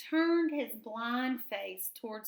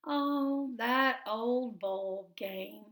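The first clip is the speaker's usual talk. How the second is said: chuckling; much slower than usual. Acted. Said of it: "the mole chuckled".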